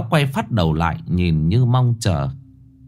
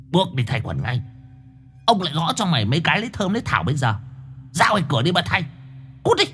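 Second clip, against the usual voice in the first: disgusted scolding; 6 semitones higher, 4 dB quieter, much faster than usual. A narrator's reading. Angry boy chasing friend out.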